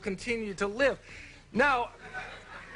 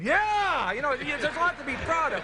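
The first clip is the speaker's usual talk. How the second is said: mock proud cheer; 7 semitones higher than usual. Comic telling a talk show host about mock New York pride. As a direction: cheer it like hometown pride in a joke.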